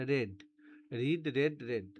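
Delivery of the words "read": রেড with a short "e" vowel; past-tense pronunciation. Shown as a demonstration. Teacher drilling the pronunciation of past-tense read, careful pronunciation. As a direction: model রেড like the colour red. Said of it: "প্রনাউন্সিয়েশনটা হবে রেড".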